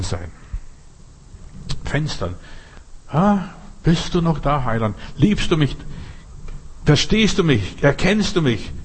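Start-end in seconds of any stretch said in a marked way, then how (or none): 3.1-8.7 higher, calling up with tender questions; pleading believer. Acted. Preacher voices a believer calling up to Jesus, pleading.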